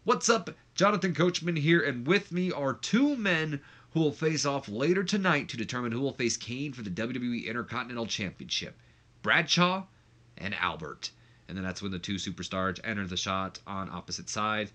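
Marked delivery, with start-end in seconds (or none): 0.0-11.1 backstage interviewer. Acted. Jonathan Coachman introduces two men facing off, high announcer voice. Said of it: "let's let him talk about that".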